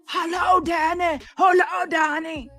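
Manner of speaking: high-pitched mock holler; imitating Maggot. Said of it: "she cannot whisper".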